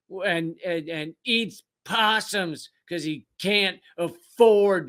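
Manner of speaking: hammed-up mocking sneer; mock rival fan.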